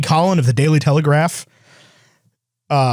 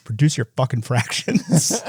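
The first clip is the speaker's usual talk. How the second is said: deadpan to camera; 3 semitones lower, 4 dB quieter than usual. Retold or imitated. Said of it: "straight up looking at the camera".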